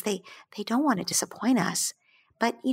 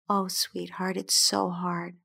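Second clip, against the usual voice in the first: soothing; slower than usual. Acted. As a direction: soothe gently, drawing out the words. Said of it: "if you say soothingly".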